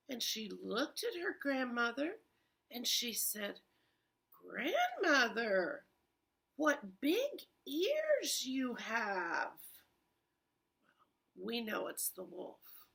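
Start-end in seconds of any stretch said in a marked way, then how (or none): 4.3-9.6 put-on slow, wondering girl voice; curious little girl. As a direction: draw it out like a puzzled child. Red questions grandmother.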